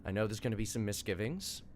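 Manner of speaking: a touch of quiet encouragement; gentle reassurance. Acted. Mentor calming a scared follower, gentle reassurance.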